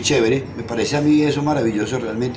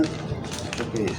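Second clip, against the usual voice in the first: lower, much softer and slow, wondering aloud; imitating a puzzled listener; 5 semitones lower, 11 dB quieter, slower than usual. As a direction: ask it like a baffled kid hearing the radio. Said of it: "entonces decían". (pregunta desconcertada, suave y lenta)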